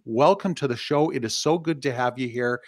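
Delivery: ordinary talk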